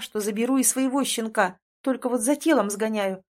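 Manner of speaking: usual speaking voice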